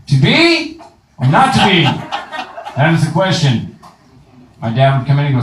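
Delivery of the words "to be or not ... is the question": mock grand Shakespeare recital; Shakespeare line declaimed to mock acting lessons; hammed-up Hamlet. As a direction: overact the soliloquy like a ham. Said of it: "learn how to act".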